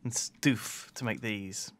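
soft slow whispered aside; whispering. Acted. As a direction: whisper it like a secret joke. Silly whispered aside about stuff.

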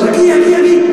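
high, loud urgent calls; urgent calling. Acted. Rescuer grabbing a drowning man, high and loud. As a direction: yell it while hauling someone up.

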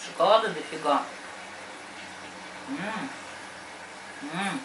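chewing while talking; speaking through chocolate; mouth full. Real, not acted. Seen 0: Hand at mouth, jaw working on chocolate candy while speaking.

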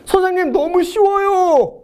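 high, slow put-on student voice; mock student voice. Students telling the teacher it's too easy, high and drawn out. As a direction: play a cocky student bragging.

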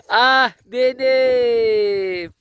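very slow stretched sigh; fond drawn-out sigh. Real, not acted. Owner sighing fondly at her pet, very slow. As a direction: sigh lovingly over the dog.

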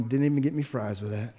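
low, soft whiny mimicry; lightly mocking whine, God quoting the complainer; mocking complaint. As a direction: mimic a sulky ingrate. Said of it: "keep looking at me going".

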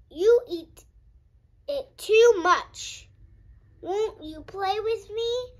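high, loud pleading please; pleading friend. Acted. Freddy begging Minnie to stop eating and play, loud and pleading.

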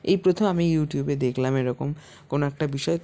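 talking with a toothbrush in; while brushing teeth. Real, not acted. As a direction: mouth busy brushing teeth. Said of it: "দাঁত মাজছি সেটাকেও পর্যন্ত ব্লগে দেখাচ্ছি".

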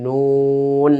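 নুন with a long held, rounded oo; rounded-lip pronunciation. Shown as a demonstration. Teacher showing pupils how the letter is named, rounded lips. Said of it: "ওটাকে যখন আমরা বলি".

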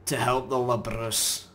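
slow, lightly put-on Scottish accent; a hint of Scottish read-aloud. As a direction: read it like a hammy Scotsman. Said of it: "We're going Scottish".

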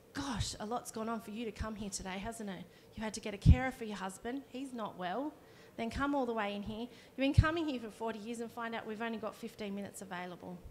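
calm her by naming what she's been through; understanding reply. Shown as a demonstration. Receptionist calmly validating upset grandma, gentle and understanding. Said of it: "But actually to say to Audrey".

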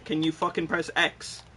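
exasperated begging the opponent to press X; building plea. Real, not acted.

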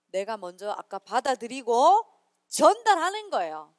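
normal talking voice

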